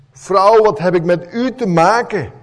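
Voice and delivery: sharp, dismissive rebuke with a loud opening; curt and harsh. Shown as a demonstration. Preacher showing how the translation sounds, curt and unkind. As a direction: snap it out like a cold brush-off. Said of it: "Dat klinkt niet erg aardig".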